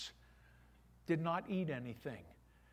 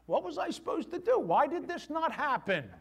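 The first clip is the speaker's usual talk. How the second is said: higher, louder and fast, pleading why; exasperated outburst; 8 semitones higher, 5 dB louder than usual. Acted. Believer demanding why prayer failed, exasperated outcry. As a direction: throw the question up in frustration.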